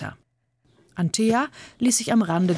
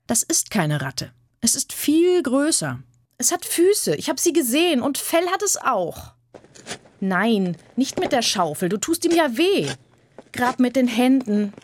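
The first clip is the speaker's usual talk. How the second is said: put-on high girl's voice, insistent and excited; eager girl Anthea; 7 semitones higher than usual. Anthea telling the boys not to hurt the creature, high and pleading. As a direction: plead for the creature, higher than the narration.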